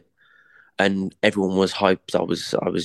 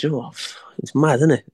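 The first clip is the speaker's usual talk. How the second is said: higher, amazed reply; his own retold reply; 5 semitones higher than usual. Boxer answering his mate, higher and amazed. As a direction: say it like he's just realised. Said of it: "I said".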